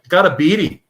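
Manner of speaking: bad Australian accent imitation. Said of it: "how do you say it in his Australian accent".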